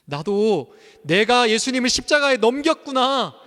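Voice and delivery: fervent preacher's cry; impassioned preaching. Real, not acted. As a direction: drive the point home.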